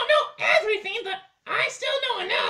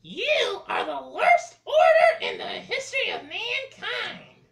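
witchy laughing yell; laughing shout; 3 semitones higher, 4 dB louder than usual. Acted. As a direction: scream it laughing.

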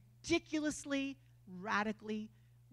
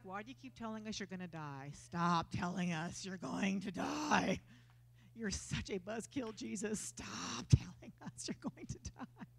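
whiny disciples; 5 semitones lower, 6 dB quieter than usual. Retold or imitated. Disciples complaining to Jesus.

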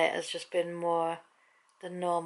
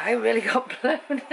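laughing; 4 semitones higher than usual. Real, not acted. Laughs about the wind.

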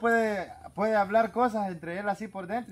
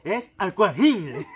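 slow and louder insistence; mock gangoso insisting; 6 dB louder, much slower than usual. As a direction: drag the word Aquajine out. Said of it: "le dice".

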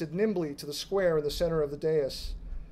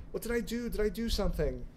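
panicked; 5 semitones higher than usual. A narrator's reading. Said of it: "ran in circles, saying".

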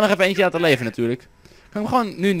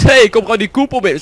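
voicing a zombie; 5 semitones higher, 7 dB louder than usual. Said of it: "Dat ding denkt gewoon".

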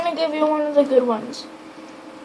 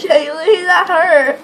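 laughing; 2 semitones higher, much slower than usual. Real, not acted. Hit while blindfolded.

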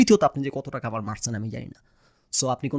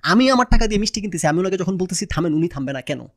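loud, high, aggrieved retelling; indignant protest; 5 semitones higher, 5 dB louder than usual. Retold or imitated. Customer recounts protesting to the pushy sweet seller, loudly indignant. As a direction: argue it hotly, voice raised.

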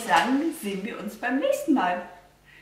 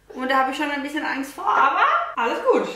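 laughing nervously; 3 semitones higher, 3 dB louder, faster than usual. Real, not acted. Nervous about mascara on herself.

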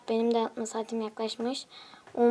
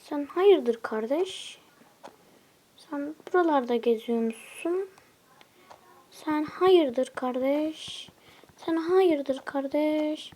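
taunting; 2 semitones higher, slower than usual. Acted. Taunting an enemy player.

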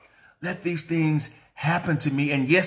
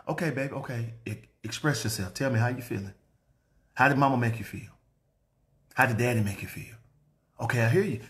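put-on softer, gentle parent to child; soothing parent; 4 semitones lower, 4 dB quieter, faster than usual. Shown as a demonstration. Parent gently inviting a child to express feelings, soft. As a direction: coax a child to open up.

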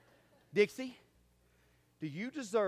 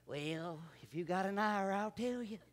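weary complainer; 6 dB quieter, slower than usual. Retold or imitated. Mock weary churchgoer answer.

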